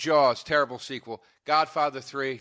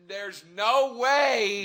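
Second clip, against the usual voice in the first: high, loud, drawn-out protest; loud disbelief; 8 semitones higher, 11 dB louder, much slower than usual. Retold or imitated. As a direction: stretch it out in incredulous refusal. Retold disbelieving reply, drawn out.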